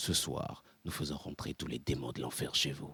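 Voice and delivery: very soft, hushed movie-trailer narrator voice. Speaker demonstrating how to change the voice, movie trailer voice. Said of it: "une voix de trailer".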